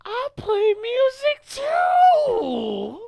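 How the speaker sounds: high, slow, excited yelling; excited shout. Retold or imitated. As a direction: shout it out in delight. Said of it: "And I'm like".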